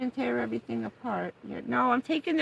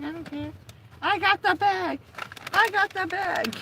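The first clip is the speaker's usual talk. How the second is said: higher, gleeful dog voice; voicing the dog; 9 semitones higher than usual. Owner voicing dog who grabbed bag, gleeful.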